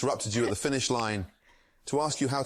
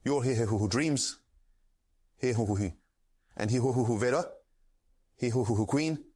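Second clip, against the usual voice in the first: getting sadder. Acted. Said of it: "He's getting sadder".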